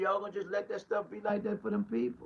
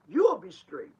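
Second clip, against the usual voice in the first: louder, driving it home; emphatic repeat; 6 dB louder than usual. Real, not acted. Preacher to his people, punched out loud. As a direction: hammer the promise a second time.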